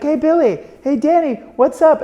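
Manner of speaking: high, loud call to famous faces across the crowd; excited high call across a crowd. Retold or imitated. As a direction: shout their names over the crowd, thrilled. Calling out to stars over crowd.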